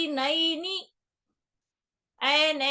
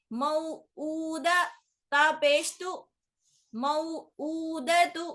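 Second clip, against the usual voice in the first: slow, drawn-out sing-song letter drill; Qaida spelling recitation; 4 semitones higher, slower than usual. Shown as a demonstration. Teacher reciting Qaida letters for a young pupil, slow and sing-song. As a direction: spell out each syllable slowly for a child to repeat.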